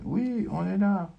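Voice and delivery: high, slow answering call; Suzanne calling back. Acted. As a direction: call back so she can find you. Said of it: "Voix de Suzanne".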